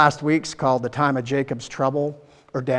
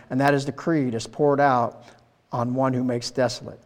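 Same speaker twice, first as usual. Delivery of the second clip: scripture reading; 4 dB louder than usual. Acted. Reads scripture aloud.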